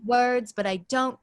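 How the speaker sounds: a hint of a mid-Atlantic actressy accent, over-enunciated; lightly imitating a theatrical mid-Atlantic accent; Catherine O'Hara's odd accent. Actor sketching the accent from Schitt's Creek, lightly mid-Atlantic. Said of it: "accent where she's like".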